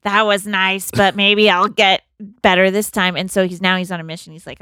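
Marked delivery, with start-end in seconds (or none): 0.0-3.2 hopeful exclaim. Retold or imitated. Phil hopeful after good night.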